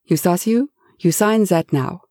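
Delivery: lightly voiced German command; a hint of a firm German order; German-accented command. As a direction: boss ordering his fainting servant to sign. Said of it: "Ulrich commanded".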